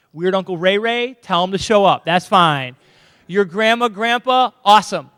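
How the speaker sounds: loud and upbeat; excited. Real, not acted. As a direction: cheer the family on. Hyping up graduation guests.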